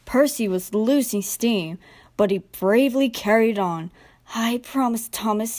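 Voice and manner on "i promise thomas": breathless, panting words. Acted. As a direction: pant it out, worn out. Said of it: "he panted".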